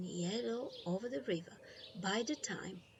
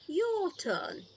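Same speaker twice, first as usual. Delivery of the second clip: higher, louder cheerful Grandma; Grandma's voice; 11 semitones higher, 5 dB louder than usual. Acted. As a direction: hand over the pole with a bright lift. Grandma voiced in read story.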